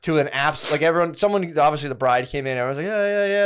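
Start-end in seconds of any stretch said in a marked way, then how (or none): 2.9-3.4 high, hyped chant; a lightly imitated cheering crowd; mock cheering. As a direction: hype the bride up like the crowd. Wedding crowd cheering the bride.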